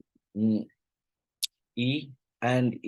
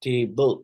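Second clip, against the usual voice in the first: "table" stressed on its first syllable; 4 dB louder than usual. Shown as a demonstration. Teacher showing capital-letter syllables, stress on first syllable of "table". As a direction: hit the "ta" of "table". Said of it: "जो capital letter में दिए गए हैं".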